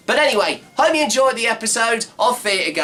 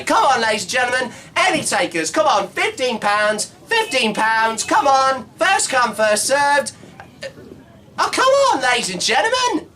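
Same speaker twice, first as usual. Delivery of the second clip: mock barrow-boy shout to passers-by, Cockney accent; hammed-up Cockney trader calling out, pitch rising; Cockney market call; 3 semitones higher than usual. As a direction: holler the price across the market in Cockney.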